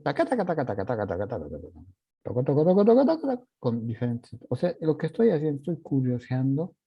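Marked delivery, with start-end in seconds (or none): 0.0-3.4 rising and falling rhythm. Shown as a demonstration. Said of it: "el bajar o subir".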